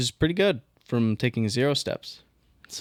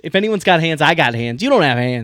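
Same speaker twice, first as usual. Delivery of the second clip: louder, punching the word got; insistent loud; 2 semitones higher, 5 dB louder than usual. Real, not acted. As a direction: argue it, hammering each line. Heated mock argument about hands.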